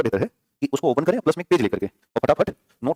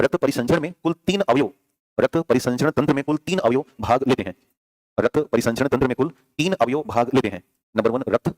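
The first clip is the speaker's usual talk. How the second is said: dictating. Shown as a demonstration. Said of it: "नई line से लिखिएगा".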